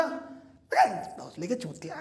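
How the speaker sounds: dropped to a near-whisper under the breath; muttered insult. Acted. Narrator mutters an insult at the crying guy, under his breath. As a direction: hiss the insult quietly as you turn away.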